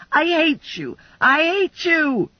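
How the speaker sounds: high, slowing shrieked hate; hysterical hatred. A narrator's reading. Sugar screaming at Stephanie, hysterical shriek. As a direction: wail it out in fury.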